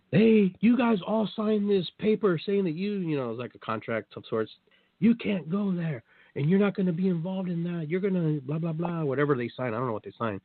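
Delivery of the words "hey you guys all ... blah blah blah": imitating the official. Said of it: "He goes".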